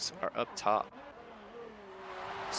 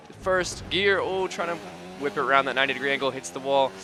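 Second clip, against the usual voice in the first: excited commentary; 5 semitones higher, 3 dB louder than usual. Real, not acted. Driver losing it in corner.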